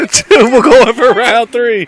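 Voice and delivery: slow, cracking with laughter; laughing. Real, not acted. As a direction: announce it while laughing. Laughing while announcing round three.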